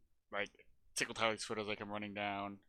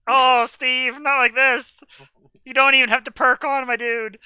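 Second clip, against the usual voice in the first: raised, loud plea to an ally; mock dismay; 6 semitones higher, 8 dB louder than usual. Player pleading with Steve not like this, loud mock dismay. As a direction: cry out in exaggerated disappointment.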